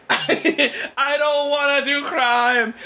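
high, slow mock wail; laughing, stretched-out high imitation; imitated catchphrase. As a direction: mimic a whiny protest, drawn out. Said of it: "obsessed with that now as a catchphrase".

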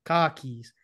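"Car keys" with no R, Boston style. Shown as a demonstration. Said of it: "you gotta first start with car keys".

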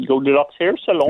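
put-on posh receptionist answering the phone; lightly posh, sing-song telephone manner. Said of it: "she has this kind of posh voice".

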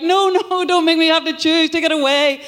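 hammed-up dread at having to choose; panicked pleading. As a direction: beg them to take it away, overwhelmed. Acting out her own panic at choosing.

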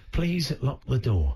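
slow, measured toilet announcement; talking toilet. Shown as a demonstration. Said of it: "Maybe you're a talking toilet".

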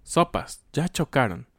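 a quick startled cry at a crash; surprised exclamation. Shown as a demonstration. Teacher acting out a car crash, startled exclamation. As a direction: blurt it out, caught off guard. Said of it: "cuando ocurre un accidente".

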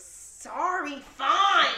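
exasperated forced apology. Retold or imitated. Daughter made to repeat apology, imitated huffy compliance. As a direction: give in crossly, imitating a child. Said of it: "say it like you mean it".

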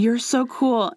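whispered fanboy compliment; mock whisper. Mocking the boy prince and Josiah, whispered gushing. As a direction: hush it like a shy admirer.

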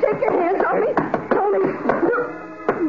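slow, drawn-out tearful plea; terrified plea. Acted. Bride begs husband to let her go, crying. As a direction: beg him to stop, crying.

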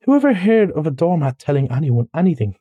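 high-pitched, peevish complaint; petulant, fussy indignation; pettish. Acted. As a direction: protest at the folly of it. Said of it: "said the mole quite pettishly".

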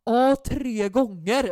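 slow, drawn-out mock parent; put-on dark voice. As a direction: stretch it out like a weary dad. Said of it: "drar ju på en så jävla mörk röst".

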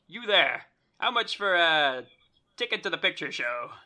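put-on loud old-fashioned hail, calling out; old-timey voice. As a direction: hail the ticket man like an old-timey gent. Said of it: "talk in some kind of, like, old-timey voice".

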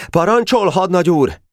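high-pitched military response; fuming obedience. A narrator's reading. Furious private forced to obey his lieutenant, high tense reply. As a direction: answer the superior through your annoyance. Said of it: "fúlt mérgében a kis szőke".

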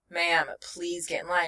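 retold official, even and unbothered; measured, polite brush-off; nonchalant guard. Guard answering a frantic traveler, nonchalant. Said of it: "still nonchalant at this point".

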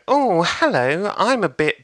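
lightly imitated comic's opener; hapless opening act. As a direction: ease into a tentative stage hello.

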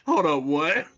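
high, incredulous double take; a baffled high-pitched double take; confused disbelief. Retold or imitated. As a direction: act baffled by what you just read. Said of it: "And I'm like".

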